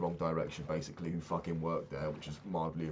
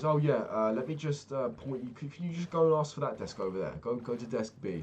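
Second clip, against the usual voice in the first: imitating desk lady; 5 semitones higher than usual. Desk lady brushes him off.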